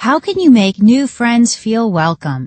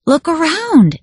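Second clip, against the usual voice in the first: much higher, bright call; eager exclamation; 8 semitones higher than usual. A narrator's reading. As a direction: show off the whole room. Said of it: "exclaimed William".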